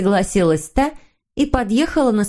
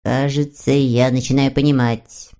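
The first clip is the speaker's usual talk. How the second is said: low, pensive Moomin voice; slowly, thoughtfully; 6 semitones lower than usual. A narrator's reading. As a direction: muse in a lowered voice. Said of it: "медленно проговорил Мумитроль". (задумчиво, низким голосом)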